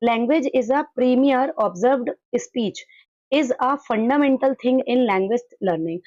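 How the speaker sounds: slow, deliberate reading of an English definition; slow dictation reading. Acted. Teacher reading a textbook definition aloud to the class, slowly. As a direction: read it word by word for students to copy down.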